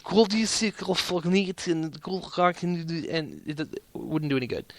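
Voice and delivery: mock Russian accent, half-hearted and fading out; bad Russian impression. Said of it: "It's a terrible Russian impression".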